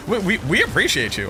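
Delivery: imitating a grave, suspicious tone; mock cop tone. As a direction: parrot it like a cop at the door. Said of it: "You were like".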